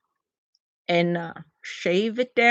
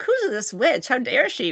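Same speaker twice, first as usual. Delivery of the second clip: mildly mad, raised pitch; retold indignation; 4 semitones higher than usual. Streamer mad at woman attacking her friend, retold indignation. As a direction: play up offense on someone else's behalf. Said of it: "I'm getting mad at her".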